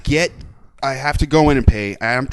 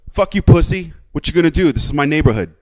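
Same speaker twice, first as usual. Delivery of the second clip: imitating a hostile driver, louder and higher at first; retold aggressive challenge; confrontational retort; 4 semitones higher, 5 dB louder than usual. Driver confronts him at the gas pumps, confrontational.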